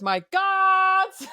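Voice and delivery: high, loud squeal for help; cowardly yelp. Retold or imitated. Mimicking the sheriff screaming for his guards, high and panicked. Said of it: "he goes".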